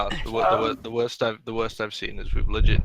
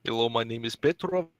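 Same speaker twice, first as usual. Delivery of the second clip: mock Eastern European accent; 2 semitones higher than usual. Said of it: "That's not Polish".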